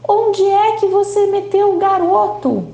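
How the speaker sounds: put-on father yelling for the invisible boy, high and frantic; father shouting. A narrator's reading. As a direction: yell at the empty room. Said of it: "E aí ele começa a gritar".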